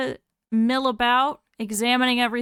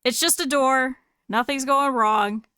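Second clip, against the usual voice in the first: higher, louder, flustered excuses; defensive Jake; 5 semitones higher, 4 dB louder, slower than usual. Acted. The bee Jake insists the open door is no problem, defensive and louder. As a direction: talk fast over the blame like a caught bee. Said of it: "Jake's like".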